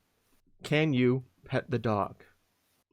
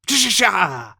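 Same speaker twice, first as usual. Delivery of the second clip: loud, higher mumbled Boomhauer babble; Boomhauer impression; 6 semitones higher, 7 dB louder, slower than usual. Showing off his Boomhauer to the stream, loud babble. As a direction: spit out a Boomhauer stutter. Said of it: "I do a good Boomhauer".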